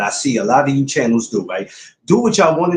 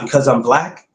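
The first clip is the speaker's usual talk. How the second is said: retorting question. Retold or imitated. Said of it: "and I go".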